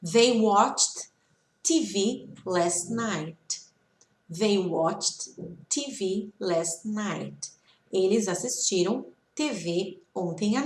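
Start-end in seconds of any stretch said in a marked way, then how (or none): 0.1-3.6 slow, word groups spaced for repetition; slow model reading. Shown as a demonstration. Teacher reading examples for students to repeat, slow and measured. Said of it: "vou ler aqui algumas frases pra vocês". 4.3-7.5 very slow, evenly spaced dictation style; slow model reading. Shown as a demonstration. Teacher repeating the example for students, very slow and measured. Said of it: "vocês podem repetir".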